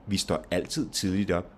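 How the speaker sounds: "altid", "tidligt" and "op" stressed, "Vi står" light. Shown as a demonstration. Teacher's two-adverb example, stress on "altid", "tidligt", "op". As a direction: give weight to "altid", "tidligt" and final "op". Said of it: "you have the stress on altid".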